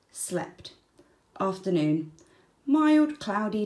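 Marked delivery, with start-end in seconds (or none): 0.1-0.7 whispered, drowsy slept; sleepy whisper. A narrator's reading. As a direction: breathe it out like dozing off. Sleepy wombat diary entry.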